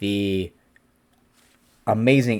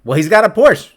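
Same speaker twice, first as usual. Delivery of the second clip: much higher and louder, dead sure; mock client certainty; insistent client; 9 semitones higher, 9 dB louder than usual. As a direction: state the Porsche like it settles everything. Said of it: "they're like".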